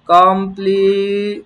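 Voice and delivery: কমপ্লি- stretched long and slow as kom-pli; drawn-out syllable. Shown as a demonstration. Teacher to class, stretching the syllable. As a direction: hold the syllable কমপ্লি- slowly. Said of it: "teacher drills syllable".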